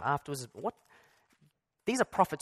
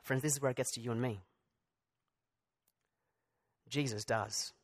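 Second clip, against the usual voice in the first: softer and lower, slowing down; hushed intimate turn; 4 semitones lower, 7 dB quieter than usual. Real, not acted. Preacher turning to his congregation, hushed and lower. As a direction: draw the listeners close.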